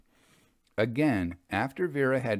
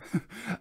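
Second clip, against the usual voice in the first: chuckle; 8 semitones higher, 4 dB quieter than usual. A narrator's reading. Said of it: "Vera said with a chuckle".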